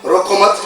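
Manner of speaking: रोको मत run together as one command; no break between रोको and मत; मत joined to रोको. Shown as a demonstration. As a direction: say रोको मत in one piece and stop. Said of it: "लहजे से बिल्कुल ही".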